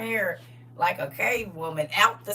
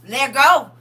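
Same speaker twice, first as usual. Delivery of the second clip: building demand; 5 dB louder than usual. Acted. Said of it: "He be like".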